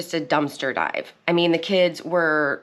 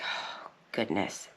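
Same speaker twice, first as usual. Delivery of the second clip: slow, much lower whisper; dismayed whisper; 7 semitones lower, 12 dB quieter, slower than usual. Retold or imitated. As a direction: breathe it out in embarrassment. Dismayed as wife storms off.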